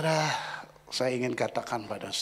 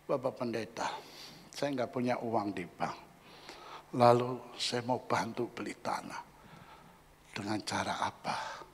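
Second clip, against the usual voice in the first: quiet humble plea; 3 semitones lower, 6 dB quieter than usual. Retold or imitated. Voicing humble church member.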